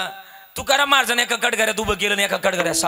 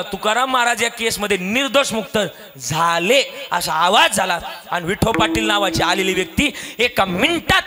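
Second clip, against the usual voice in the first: ordinary delivery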